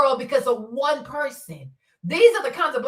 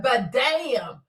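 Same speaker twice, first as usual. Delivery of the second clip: building amazement; much slower than usual. Retold or imitated. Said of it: "I said".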